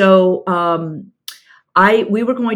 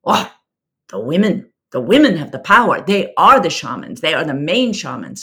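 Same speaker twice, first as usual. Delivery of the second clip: a lightly voiced South African accent, leaning on women; a half-remembered South African accent, understated. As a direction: recall the friend's answer in a faint South African accent. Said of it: "my South African accent's gone out the window".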